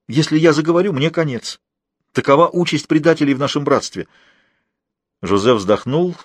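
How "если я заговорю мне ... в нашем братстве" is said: lightly voiced higher prisoner; a hint of a frightened informer; anxious prisoner. (слегка повышенный голос встревоженного узника)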